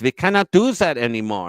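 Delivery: mock German-accented refusal. German captor refuses pilot again, mock German accent. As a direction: put on a German officer's accent.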